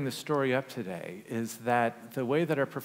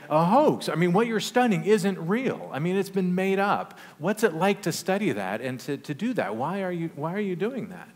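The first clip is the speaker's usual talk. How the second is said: high, loud insisting student; insistent challenge; 7 semitones higher, 7 dB louder than usual. Retold or imitated. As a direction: press him hard on why he studies it. Student insists it's a hoax.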